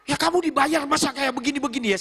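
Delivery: high-pitched boss tirade; imitated annoyed scolding. Young boss scolding the employee he pays, mock exasperation. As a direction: berate a paid worker in exasperation. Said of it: "Karena saya kesel".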